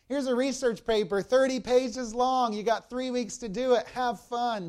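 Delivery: mock cruel teacher. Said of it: "cruel algebra two teacher".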